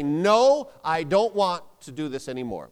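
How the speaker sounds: loud, punched NO then a firm statement; decisive, emphatic "No"; emphatic refusal. Shown as a demonstration. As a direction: hit NO hard, refuse with conviction. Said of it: "You've gotta make that emphatically".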